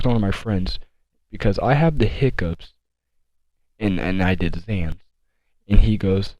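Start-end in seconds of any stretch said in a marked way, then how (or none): 1.3-5.0 slow, heavy explanation; imitating a sedated girl explaining slowly; mock slow dazed talk. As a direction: drag it out like you're half asleep. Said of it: "she's talking slow".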